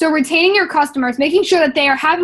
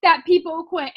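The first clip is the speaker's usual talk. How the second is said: put-on quoting the girl; much slower than usual. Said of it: "she literally said this exact words".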